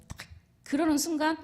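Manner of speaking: ordinary talk, nothing marked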